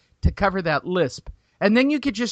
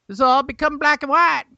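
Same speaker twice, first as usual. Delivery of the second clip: louder, higher Southern redneck rant; Southern accent; 5 semitones higher, 5 dB louder than usual. Pretend. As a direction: hype it up like a rowdy Southern fan, Southern accent. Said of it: "I can only do Southern people".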